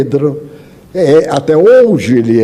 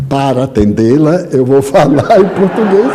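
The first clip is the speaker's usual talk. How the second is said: laughing reply. Retold or imitated. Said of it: "Ele disse assim".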